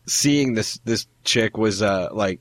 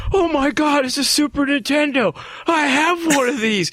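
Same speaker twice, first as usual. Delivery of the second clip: mock excited gushing. Retelling the woman spotting a Super Nintendo, mock excited. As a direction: imitate her excitement in a much higher voice.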